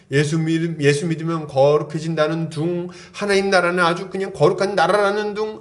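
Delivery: low, monotone recital of pious claims; mock pious droning. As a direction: rattle off doctrine as empty talk, pitched low. Mimicking hollow religious talk of hypocrites. (낮고 단조롭게 읊조리는 위선적인 신앙인 흉내)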